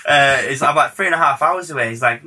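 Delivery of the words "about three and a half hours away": higher, quick echo in a bad accent; a rapper. Star echoing the producer's travel time, bad impression. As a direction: repeat it back as a badly imitated star. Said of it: "This is a really terrible Pitbull accent".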